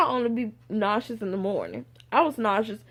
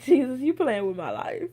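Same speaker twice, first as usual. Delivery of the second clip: laughing disbelief; 4 semitones higher than usual. Retold or imitated. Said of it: "I started laughing".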